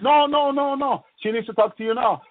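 high urgent no no no; urgent insisting. Retold or imitated.

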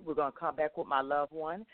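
ordinary delivery

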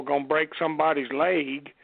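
lightly imitated Tennessee drawl. Recalling Rocket's promo talk, imitated Tennessee drawl. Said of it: "with that Tennessee drawl".

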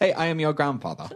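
acted grandfather line. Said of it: "That was Catherine".

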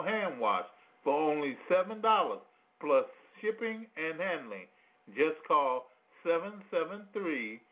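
upbeat infomercial pitch. Acted. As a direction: sell it like a TV ad. Reads a mock product ad.

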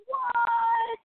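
high, loud, drawn-out what; stunned exclamation; shocked. Retold or imitated. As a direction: gasp it out in disbelief. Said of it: "I'm like".

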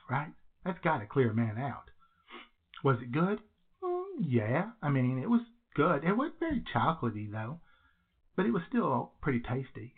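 echoey bathroom recording. Real, not acted. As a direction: speak in a small echoing bathroom. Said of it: "do I sound a little echoey today?".

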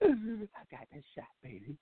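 high, slow whimpering admission; whiny mock confession. Man whines to his girl about the shot, high and slow. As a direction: whine it out like a sorry boyfriend. Crying man explains, laughing.

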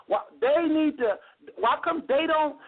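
imitating complainers. Host mimics the people that talk like that, mock complaining. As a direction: mimic a complainer, voice pitched well up. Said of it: "Them the people that talk like that".

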